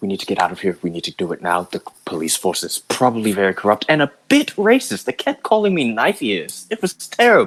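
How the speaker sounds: deadly serious, grave, earnest tone. Speaker playing a character who urges getting out now, in an extremely serious tone. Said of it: "but like in an extremely serious tone".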